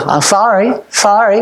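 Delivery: a quick, throwaway "I'm sorry, sorry"; careless, insincere "sorry, sorry"; flippant apology. Shown as a demonstration. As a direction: toss off "I'm sorry, sorry" without meaning it. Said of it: "It can't be said".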